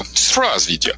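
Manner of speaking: lightly attempted Russian accent, not convincing; an amateur actor trying a Russian mafia accent; bad Russian accent. Actor practising Russian accent for mafia parts, half-hearted. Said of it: "So I would try to go".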